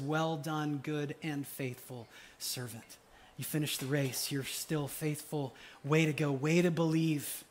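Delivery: soft, slow words of welcome; tender commendation. Acted. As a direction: lightly voice Jesus gently praising a faithful servant. Voicing Jesus welcoming the believer.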